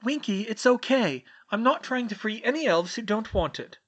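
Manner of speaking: calm the frightened elf; gently. A narrator's reading. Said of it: "she said gently".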